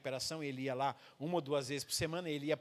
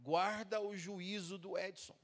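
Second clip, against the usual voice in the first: slow prayer; 4 dB quieter, slower than usual. Retold or imitated. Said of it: "colocou a mão assim e disse assim".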